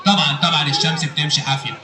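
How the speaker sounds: very low puppet character voice; Aragoz puppet. Acted. Puppet telling the host his school subjects, Aragoz voice. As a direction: list it as a puppet, far below your own pitch. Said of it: "الأراجوز ده وهو بيرغي".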